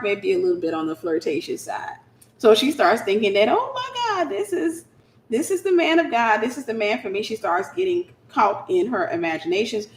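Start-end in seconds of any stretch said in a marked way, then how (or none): 3.5-7.2 high, breathless gushing; thrilled high squeal fading down; giddy excitement. Retold or imitated. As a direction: squeal it like a smitten girl. Woman thrilled at her crush.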